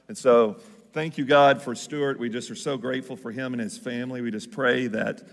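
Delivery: earnest spoken prayer. Real, not acted. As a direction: pray it aloud, earnest. Pastor prays aloud.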